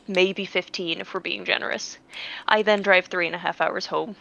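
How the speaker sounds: unvoiced weary whisper. Real, not acted. Ending the story of the wasted drive in a whisper. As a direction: breathe it out, defeated.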